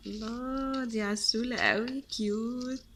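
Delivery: high-pitched, drawn-out gush of delight; delighted cooing. Real, not acted. Vlogger gushing over a cute candy, delighted cooing. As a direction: coo over something adorably cute.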